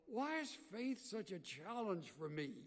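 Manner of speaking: sincere self-question. Shown as a demonstration. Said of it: "you need to ask yourself".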